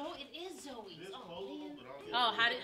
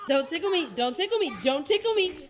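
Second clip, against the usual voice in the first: being tickled; 4 semitones higher, 5 dB louder than usual. Real, not acted.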